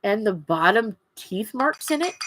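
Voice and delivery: talking through a swollen lip. Real, not acted. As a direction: lips puffy from a bite, speak around it. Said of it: "that's why I'm a little weird sounding right now".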